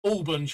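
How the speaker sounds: ALBANS starting like "all"; pronunciation number two. Shown as a demonstration. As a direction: say ALBANS as "AWL-bunz". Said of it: "that's number two".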